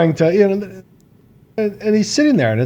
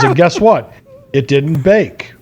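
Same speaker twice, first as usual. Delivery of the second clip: mock solemn reveal; 4 semitones higher, slower than usual. Voicing friend's reveal.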